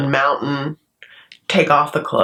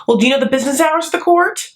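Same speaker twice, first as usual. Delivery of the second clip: mocking Terry; 10 semitones higher, faster than usual. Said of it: "Terry, asks Omar the court's business hours".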